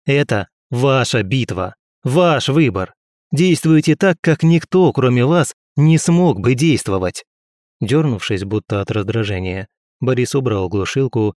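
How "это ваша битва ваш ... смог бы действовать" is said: rousing urging. Acted. Narrator urges Boris on.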